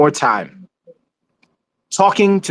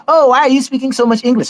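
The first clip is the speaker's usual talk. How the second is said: mock complaint; 7 semitones higher than usual. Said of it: "they always say".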